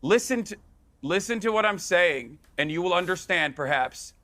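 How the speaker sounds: condescending, deliberate delivery; patronizing. Real, not acted. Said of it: "That's very patronizing".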